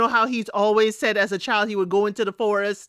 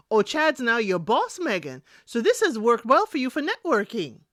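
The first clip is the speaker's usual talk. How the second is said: mock-innocent sarcastic aside; side-eye sarcasm. Vlogger side-eyes Megan's new job, dry sarcasm. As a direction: knowingly needle Megan about her boss. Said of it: "I'm side-eyeing the".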